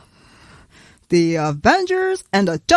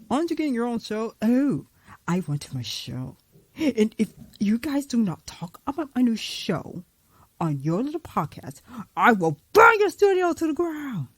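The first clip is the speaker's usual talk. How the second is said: Loki voice; 4 dB quieter than usual. Acted. Loki threatening the podcast hosts, soft menace. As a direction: hiss it like a sly villain.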